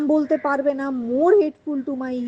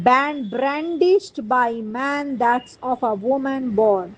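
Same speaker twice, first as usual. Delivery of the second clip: very slow, deliberate verse reading; measured play reading; much slower than usual. Acted. Teacher reading Macbeth's reply to young Seward, very slow recital. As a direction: spell out the verse phrase by phrase. Reads Macbeth's lines aloud.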